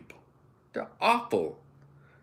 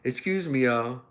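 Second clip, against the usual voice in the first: sweet polite woman. Retold or imitated. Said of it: "But a sweet woman come up there".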